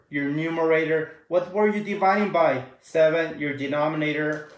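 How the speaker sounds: flat monotone robot delivery; reciting like a robot. Real, not acted. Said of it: "I know I sound like a robot".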